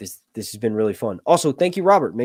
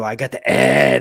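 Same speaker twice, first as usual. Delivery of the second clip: mock patient; 9 dB louder than usual. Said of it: "you go".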